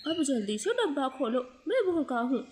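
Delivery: hungry, laughing through the words; gleeful laugh as he asks for food; laughing eagerly. Acted. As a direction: chuckle while demanding the box. Greedy husband laughing over pizza.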